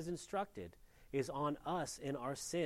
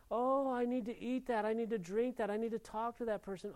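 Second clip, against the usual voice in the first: voicing the sin's craving; 6 semitones higher than usual. Sins voiced as craving addict.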